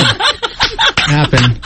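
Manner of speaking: slow, drawn-out, laughing dad quote; dad's slow puzzled question. Retold or imitated. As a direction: stretch out a baffled "What happened?". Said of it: "my dad always said".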